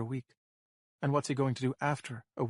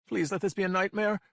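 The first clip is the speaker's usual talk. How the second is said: tearful prayer; 8 semitones higher, 3 dB louder than usual. A narrator's reading. Sobbing captive prays.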